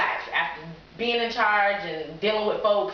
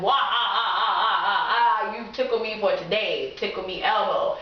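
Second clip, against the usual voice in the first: mock belly laugh. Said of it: "laugh, like".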